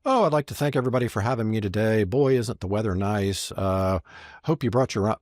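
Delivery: lightly mocked speaker's opening pleasantries; generic speech opener. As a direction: rattle off polite small talk as a bad example. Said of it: "don't come out and say".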